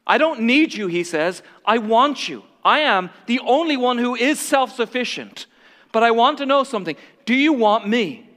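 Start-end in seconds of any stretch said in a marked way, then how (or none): 0.1-0.9 earnest Jesus. Acted. Jesus voiced, louder. 1.6-8.3 earnest Jesus. Acted. Jesus voiced, louder.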